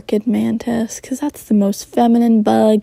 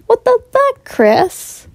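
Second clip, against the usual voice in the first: very high, louder outraged yell; shout; 13 semitones higher, 5 dB louder, slower than usual. Acted. Mormon shouting at Chris on the phone, high yell. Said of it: "Mormon shouted".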